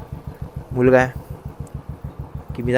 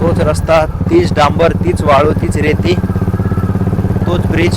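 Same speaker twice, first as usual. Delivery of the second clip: mock exasperation; 3 semitones higher, 6 dB louder than usual. Mock-complaining about same road.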